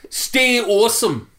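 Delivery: put-on slow, high Scottish accent. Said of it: "Scottish accent".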